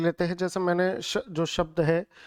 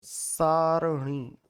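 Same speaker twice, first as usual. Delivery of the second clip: सारणी drawn out very slowly, syllable by syllable; slow model word; much slower than usual. Shown as a demonstration. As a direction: stretch सारणी out to teach it. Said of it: "शुद्ध शब्द होगा".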